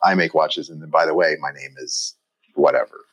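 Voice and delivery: mention the name as an afterthought; European introduction. Retold or imitated. European maker putting his craft before his name, offhand. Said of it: "the other is like".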